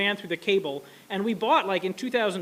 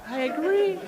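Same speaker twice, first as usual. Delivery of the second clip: mock agreement; 9 semitones higher, slower than usual. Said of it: "agrees again".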